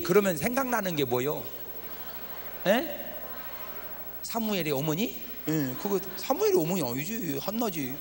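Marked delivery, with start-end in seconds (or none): none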